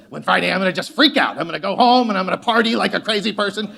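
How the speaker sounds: quick, laughing buildup to a wild weekend; excited party plans. Retold or imitated. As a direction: hype yourself up for Friday night, laughing as you go. Imagined Friday party plans.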